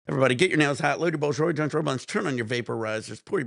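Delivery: loud rally to the crowd; loud hype call. Real, not acted. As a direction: pump up the chat, loud. Rallying the stream to smoke.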